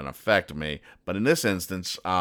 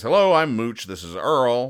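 higher, louder cartoon hello; eager greeting; 5 semitones higher, 5 dB louder than usual. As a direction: introduce yourselves keenly to a stranger. Friendly comic character introduces himself.

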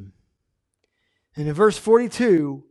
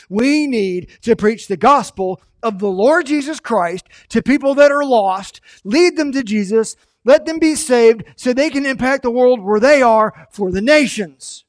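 rising to full preaching force, louder and higher; building preaching; 4 semitones higher, 5 dB louder than usual. Acted. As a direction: build it up like a preacher driving home the point.

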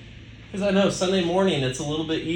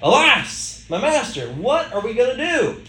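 higher and louder, a frantic plea; panicked cry; 7 semitones higher, 4 dB louder than usual. Acted. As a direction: cry it out like a terrified servant. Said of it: "we know that panic moment".

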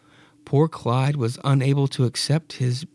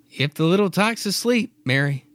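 husband's line in a mistaken high pitch; wrong voice; 5 semitones higher than usual. Acted. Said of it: "wrong voice".

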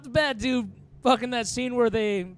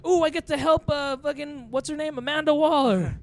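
higher, eager new-hire voice, gushing; mock excited rookie; 6 semitones higher than usual. Friend mocking an eager FBI rookie, higher and gushing. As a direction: play the thrilled fresh graduate on day one.

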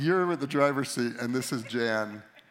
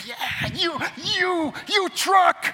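much higher, much louder yell at the truck; mock taunting shout; 7 dB louder, much slower than usual. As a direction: jeer at the truck, rising to a shout. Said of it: "the thought hits me".

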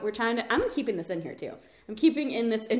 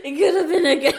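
higher, louder impression breaking into laughter; failed impression; 4 semitones higher, 9 dB louder, faster than usual. Real, not acted. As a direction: crack up mid-impression. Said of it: "I can't do it now".

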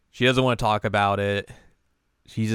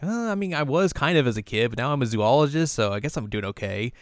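higher, sheepish and a little fast, settling down; embarrassed admission that trails back to normal; flustered Riko; 4 semitones higher, faster than usual. Retold or imitated. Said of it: "And she's like".

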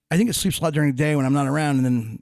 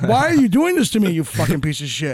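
mock outrage; 3 semitones higher than usual. Man retelling cursing at his cat to friends, mock outrage. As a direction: plead then curse at the cat. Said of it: "I'm like".

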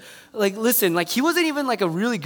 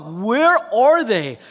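slow, stretched question; drawn-out worry; 4 dB louder, much slower than usual. Retold or imitated. Calling the missing groomsmen, slow anxious plea. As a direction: drag out the worried question.

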